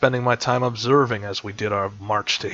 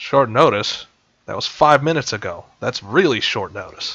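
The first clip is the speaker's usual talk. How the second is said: sarcastic elf voice, sarcastic tone. Voicing a sarcastic elf at a war council: sarcastic elf voice. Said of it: "the elf's kinda sarcastic".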